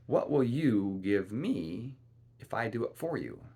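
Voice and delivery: strange little man. Acted.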